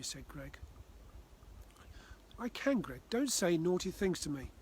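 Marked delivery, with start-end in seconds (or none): 2.4-4.5 upset. Acted. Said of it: "getting upset".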